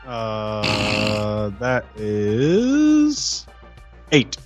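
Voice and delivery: ordinary talk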